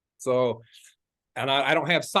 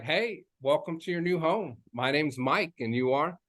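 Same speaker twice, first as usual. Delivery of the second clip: welcoming greeting; 2 semitones higher, 4 dB quieter than usual. Shown as a demonstration. Realtor greeting buyers at the open house, welcoming. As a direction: greet them like an air hug. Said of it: "but it's like".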